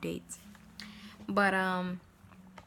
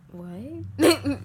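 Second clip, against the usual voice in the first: louder mock surprised shout of what; 6 semitones higher, 9 dB louder than usual. Puzzled listeners asking her, mock surprised loud what. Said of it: "they were like".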